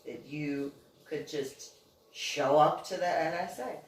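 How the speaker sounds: serious agent. Retold or imitated. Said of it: "He got all serious".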